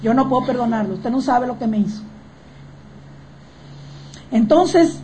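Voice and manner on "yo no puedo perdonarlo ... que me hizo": hurt refusal. Acted. Quoting unforgiving people again.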